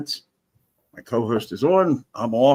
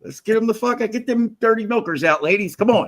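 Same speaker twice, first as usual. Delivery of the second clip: high, loud hammed-up hype; hype rally cry; 10 semitones higher, 3 dB louder than usual. Hamming it up for the ladies in his stream chat, a high, loud mock rally cry. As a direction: rouse the crowd like a cheeky emcee.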